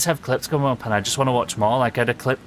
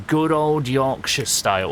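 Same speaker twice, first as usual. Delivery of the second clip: Yorkshire; 3 semitones higher than usual. Real, not acted. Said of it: "I just did a Yorkshire word on stream".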